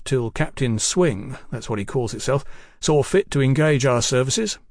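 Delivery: lightly voiced chatty tradesman king; a hint of a garrulous bill-sticker, unruffled; bill-posting king.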